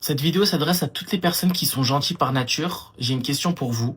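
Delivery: announcing to the kind viewers; loud address. Acted. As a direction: project to the audience.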